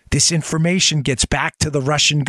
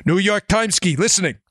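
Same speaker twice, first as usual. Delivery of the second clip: mock Russian accent, higher pitch; horrible Russian accent; 5 semitones higher than usual. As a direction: play a cartoonish Russian taking a call. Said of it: "my horrible Russian accent".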